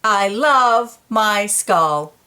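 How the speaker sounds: repeated declaration. Pretend. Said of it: "Say it again".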